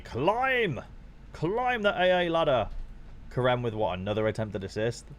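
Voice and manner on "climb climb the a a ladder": high, ringing chant of encouragement; will the score upward; excited fan urging him on; cheering. Real, not acted. Cheering his player's score up.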